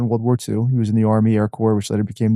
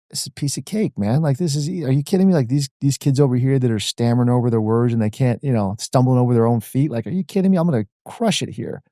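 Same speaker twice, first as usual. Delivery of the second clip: cocky younger self. Retold or imitated. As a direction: scoff at how easy it looks. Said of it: "it was like".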